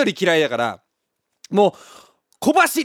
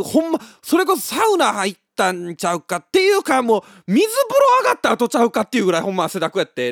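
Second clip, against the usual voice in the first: louder, higher, half-laughing; excited exaggeration; 6 semitones higher, 4 dB louder than usual. Real, not acted. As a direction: pile on the exaggeration. Exaggerating the owner's sweat.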